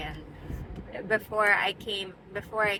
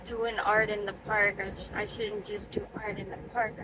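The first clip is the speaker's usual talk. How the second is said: anxious self-talk; 7 dB quieter than usual. Retold or imitated. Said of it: "anxiety in that house where I'm just like".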